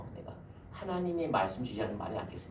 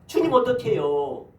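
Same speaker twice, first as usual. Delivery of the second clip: pleading cry; 10 semitones higher, 8 dB louder, slower than usual. Acted. Crying out to God in prayer.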